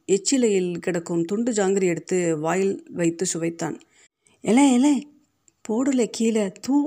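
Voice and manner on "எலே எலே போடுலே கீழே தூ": put-on high, loud cry to a child; alarmed shouting. A narrator's reading. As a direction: yell out sharply to make him drop it. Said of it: "என்று கூவியவாறு".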